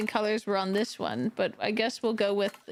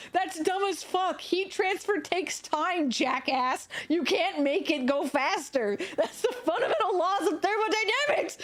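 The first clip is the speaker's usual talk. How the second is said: laughing mock rant; 5 semitones higher than usual. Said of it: "I literally went".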